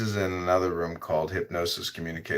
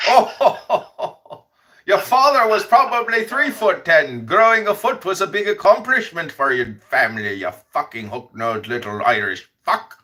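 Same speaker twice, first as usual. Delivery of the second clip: laughing taunts; 10 semitones higher, 6 dB louder than usual. Real, not acted.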